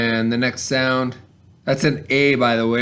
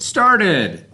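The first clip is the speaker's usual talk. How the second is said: the finished word, proudly; higher, brighter "Started."; 5 semitones higher, 3 dB louder than usual. Shown as a demonstration. Teacher reveals the blended word to kids, lifted higher. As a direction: say "Started." again, lifting it up. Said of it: "So the word is S, T, R, T, E, D".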